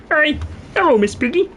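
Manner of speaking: high cartoon voice; put-on character voice. Shown as a demonstration. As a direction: greet in a high, playful character voice. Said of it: "As for other voices".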